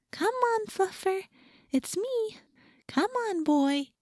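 very high, soft coaxing; high talking-to-animals voice. A narrator's reading. Rachel pleading with the cat, high soft coo. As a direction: coax gently in a high pet voice. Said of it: "in a high talking to animals voice".

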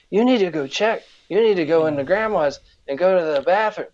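a hint of the cousin's voice; imitating cousin's speech. Cousin tells him to go check, lightly imitated voice. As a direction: lightly put on a kid cousin's way of talking. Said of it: "'cause he talked like this".

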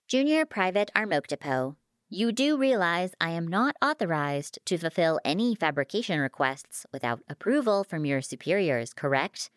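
lightly voiced officious fabricator; courteous machine. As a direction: recite the rules as a polite machine. Fabricator cites rules to private.

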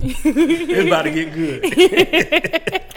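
slow, high, laughing hype; hyped up. Acted. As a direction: stretch it out, teasing and excited. Hyping up the story.

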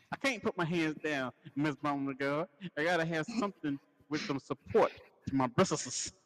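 prim, slow southern belle voice. Acted. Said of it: "Southern belle".

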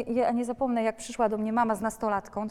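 ordinary talk, nothing marked

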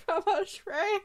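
high, loud mock French; silly French accent. Friend giving in to the joke, laughing mock-French accent. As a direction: laugh out the French words loudly. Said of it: "why am I French now?".

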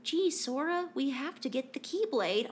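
bad Mickey Mouse impression. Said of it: "cannot do a passable Mickey Mouse impression".

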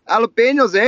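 hammed-up Canadian tag on the word; mock Canadian accent. Friend answering how Canadians say it, hammed-up Canadian accent. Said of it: "How do they say it in Canada?".

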